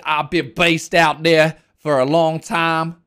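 slow, exaggerated New York imitation; slow parody of a New Yorker's accent; mock New York accent. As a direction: mimic a badly faked New York accent, drawn out. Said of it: "no way that this is a real accent".

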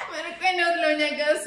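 laughing. Real, not acted. Laughing, teasing in Spanish.

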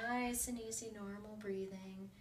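put-on calm the child down gently; soothing. Shown as a demonstration. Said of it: "coach calms the breathing".

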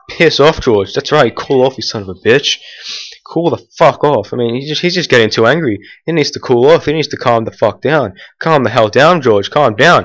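yelling at George. Real, not acted. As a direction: shout him down.

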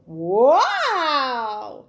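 wow, thrilled to be free; amazed wow. Acted. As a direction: Ben freed from the lion, amazed. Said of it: "said Ben".

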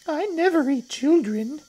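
high, loud little crocodile voice; not-so-big crocodile. Acted. Not-so-big crocodile declining to eat children, very high voice. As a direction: object in a tiny, high creature voice.

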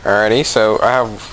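ordinary delivery

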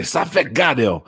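Ça fait garder in Haitian Creole, sa fe gade; Haitian Creole phrase. Retold or imitated. Haitian host teaches the Creole phrase his mom used. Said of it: "So they say".

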